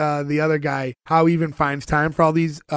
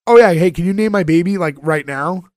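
eager neighbor voice; 7 dB louder than usual. Retold or imitated. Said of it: "Missus Ting".

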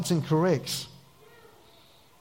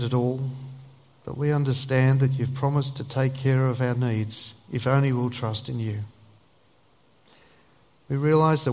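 low, even, unhurried praying voice; prayer; 3 semitones lower than usual. Real, not acted. Pastor asking the Lord to lead us, earnest prayer. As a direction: lead a hushed-toned, sincere prayer in measured phrases.

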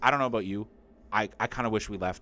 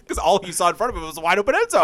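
laughing; 9 semitones higher, 10 dB louder, faster than usual. Real, not acted. Laughing at the bad throw.

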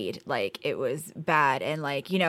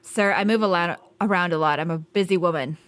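heated snapping back; 5 dB louder than usual. Acted. Agent insults caller's son.

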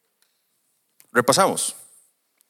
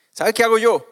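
much higher, louder teasing question; mock excited aside; 11 semitones higher, 6 dB louder than usual. Preacher teasing the congregation, high and playful. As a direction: lean in with a cheeky grin.

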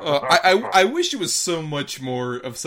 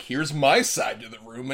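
sitcom line. Retold or imitated. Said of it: "the sitcom thing of".

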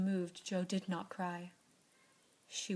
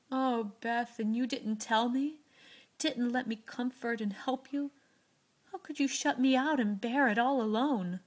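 louder, higher, aching reproach; tender reproach; 4 semitones higher, 6 dB louder than usual. A narrator's reading. Joe reproaches Beth for hiding it, tender and hurt. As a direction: scold her lovingly, near tears. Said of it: "Joe's voice was full of tender reproach".

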